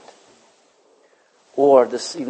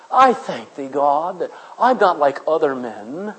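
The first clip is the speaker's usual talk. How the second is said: smug Pharisee; 2 semitones lower, slower than usual. Retold or imitated. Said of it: "Remember the Pharisee".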